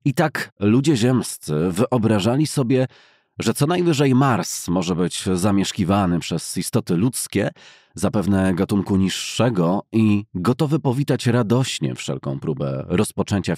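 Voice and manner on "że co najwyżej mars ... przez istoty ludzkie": plain reading voice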